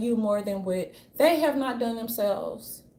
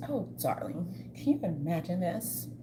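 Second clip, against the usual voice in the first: Karen impression; 3 dB quieter than usual. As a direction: mimic a pampered Karen purring. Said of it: "the Karens just used to".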